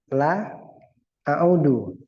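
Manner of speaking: a'udu said with its full final u; teacher's correct pronunciation. Shown as a demonstration. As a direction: model a'udu clearly for the student. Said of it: "La a'udu atau la a'ud?".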